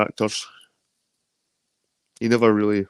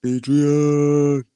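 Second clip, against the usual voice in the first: calling out; 7 semitones higher, much slower than usual. Real, not acted. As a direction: hail a friend across the room. Greeting a viewer arriving.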